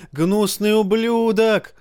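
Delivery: high, slow, drawn-out yell; crowd yelling. A narrator's reading. Crowd yells at the king, high and slow. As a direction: drag the insult out. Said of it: "вопили голоса".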